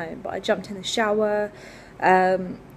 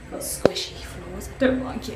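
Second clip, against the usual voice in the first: whispering. Real, not acted. Creepy lift, hushed aside.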